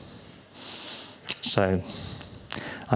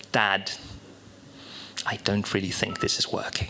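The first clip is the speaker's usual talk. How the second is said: gentle and a little softer, trying to spare Dad's feelings; kindest intonation; 3 semitones lower, 6 dB quieter than usual. Retold or imitated. Six-year-old telling his dad the story isn't working, kindly. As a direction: let him down kindly, softly. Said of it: "I said with the kindest possible intonation in my voice".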